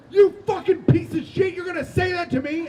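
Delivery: high, loud shouting as a furious mother; enraged mom. Retold or imitated. Mom rages at her teenage son.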